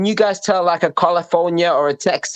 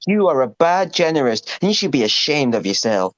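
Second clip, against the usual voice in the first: Trump impression. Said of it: "your Ohio one".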